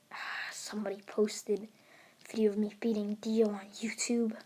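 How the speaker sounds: quiet, sighing irritation; annoyed. Acted. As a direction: grumble softly, mildly annoyed. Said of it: "twitching in annoyance".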